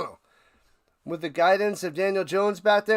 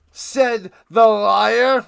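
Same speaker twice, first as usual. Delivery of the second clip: mock narrator aside; 3 semitones higher, 9 dB louder, much slower than usual. Self-mocking aside after own remark.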